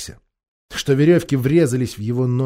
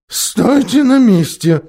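slow, high, raised order; firm command; 7 semitones higher, 7 dB louder, slower than usual. A narrator's reading. Khmur ordering the others to stay put, firm command. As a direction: order them sharply to hold still. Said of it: "приказал Хмур".

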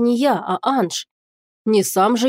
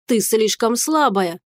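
mocking his words; slower than usual. Mocking his words back at him.

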